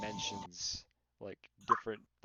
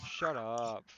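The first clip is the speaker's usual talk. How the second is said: drawn-out mock whine on SHUT UP, slightly raised; mocking imitation; 2 semitones higher, 4 dB louder than usual. Mocking a friend in voice chat, drawn-out imitation. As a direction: imitate someone complaining, stretching the words. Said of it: "then I just started to mock him".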